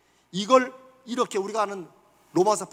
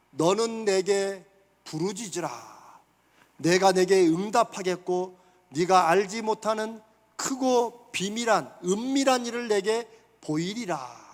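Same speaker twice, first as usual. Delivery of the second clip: slow solemn scripture; 2 semitones lower, slower than usual. Acted. Preacher quoting God's call to Jeremiah, slow and solemn. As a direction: read God's promise slowly, gravely. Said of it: "그러면서".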